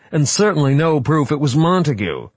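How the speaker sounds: high, loud wail. Acted. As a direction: wail it out in protest. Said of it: "Wright wailed".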